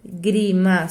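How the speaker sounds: "lágrima" as strong LÁ, gap, low gri-ma; stress on first syllable. Shown as a demonstration. Teacher showing two weak syllables remain, lágrima led by LÁ. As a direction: hit LÁ, pause, drop gri-ma. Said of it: "Sobram outras duas".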